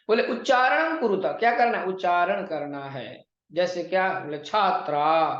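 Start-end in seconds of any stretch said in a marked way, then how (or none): 4.4-5.3 छात्रा said clearly with long vowels; clear pronunciation. Shown as a demonstration. Teacher modelling a word for trainee teachers, clear pronunciation. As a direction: enunciate छात्रा carefully, drawing out the endings. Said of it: "जब आप स्पष्ट उच्चारण करेंगे".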